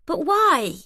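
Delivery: high, shaken plea; frightened wife begging for a reason. Acted. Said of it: "I'm shaking now".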